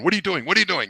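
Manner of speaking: high, alarmed mock panic at his wife; panicked yelling. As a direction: yelp it like a jumpy passenger. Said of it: "I'm going".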